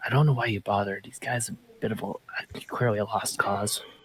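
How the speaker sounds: whispered voice. A character speaks to two others as they near the door: whispering. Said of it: "I kind of whisper at them".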